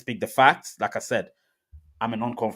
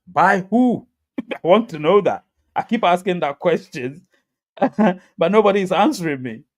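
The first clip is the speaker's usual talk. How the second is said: loud, high, laughing through it; laughing challenge; 4 semitones higher, 5 dB louder than usual. Real, not acted. Mocking critics with a loud laugh. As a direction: laugh at the question nobody answers.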